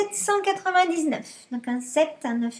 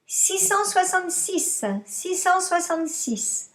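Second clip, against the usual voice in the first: dictating; 3 semitones higher than usual. Shown as a demonstration. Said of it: "je vous dicte".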